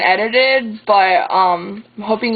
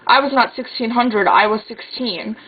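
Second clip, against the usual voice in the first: lilting spoken-word poem reading; slam poetry recitation. Acted. Sister reads a poem about watching her brother sleep, in spoken-word style. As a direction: recite it line by line with deliberate cadence.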